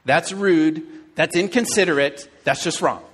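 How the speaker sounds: indignant judging. Retold or imitated. Inner judgment of rude driver.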